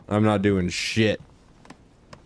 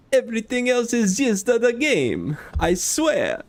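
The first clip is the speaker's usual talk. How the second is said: high, hammed-up Italian accent; sweet-talking love letter, Italian accent; 11 semitones higher than usual. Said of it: "tell me not to do the Italian accent".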